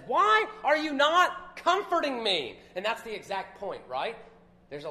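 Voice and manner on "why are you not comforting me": high, loud and slow, crying out why; anguished plea. Acted. Job begging his friends for comfort, anguished and drawn out. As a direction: plead with the friends as if betrayed.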